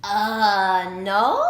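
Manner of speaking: a loud nervous uh, no. A narrator's reading. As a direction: blurt it out, caught off guard. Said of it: "Sammy answered nervously".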